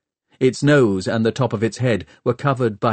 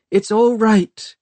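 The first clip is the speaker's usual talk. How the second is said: higher, thin and strange; a girl suddenly sounding not herself; 11 semitones higher, 5 dB louder than usual. A narrator's reading. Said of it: "in a strange, thin voice".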